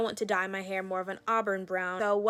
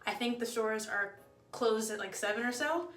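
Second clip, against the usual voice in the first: out of breath. Real, not acted. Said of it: "Sorry, I'm out of breath 'cause I just came from downstairs".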